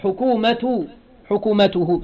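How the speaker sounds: حكومته ending in a clear "-u-hu"; ضمة ending. Shown as a demonstration. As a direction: say حكومته with u vowels on the ت and the ه. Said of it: "بالضم". (نطق حكومته بضم التاء والهاء)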